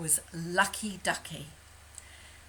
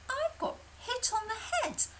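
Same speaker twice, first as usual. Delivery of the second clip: high, fast, breathless hen; frantic chicken voice. Acted. Chicken Licken to Lucky Ducky, high frantic panic. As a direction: squawk it out in a panic.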